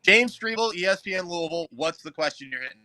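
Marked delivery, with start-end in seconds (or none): 0.0-1.7 loud, high announcer-style sign-on; hammed-up sideline reporter voice; mock reporter intro.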